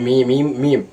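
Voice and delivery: slow, stretched মিম, each held long; drawn out by one alif. Shown as a demonstration. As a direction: hold মিম for the length of one alif, slowly. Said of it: "এক আলিফ টান". (টেনে টেনে ধীরে মিম উচ্চারণ)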